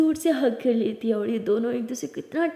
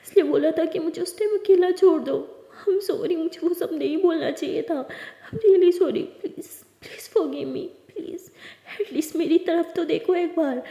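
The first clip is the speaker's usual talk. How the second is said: higher, pleading apology with a broken laugh; tearful pleading; 4 semitones higher, slower than usual. Acted. Lakshmi begging Lily to forgive her, tearful. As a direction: beg her not to stay angry.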